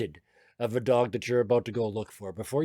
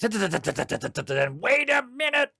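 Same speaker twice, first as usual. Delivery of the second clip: put-on high-pitched child's call, drawn out; excited child; 11 semitones higher, 4 dB louder, much slower than usual. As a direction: squeal it like a kid racing for the door. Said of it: "running fairly young feet".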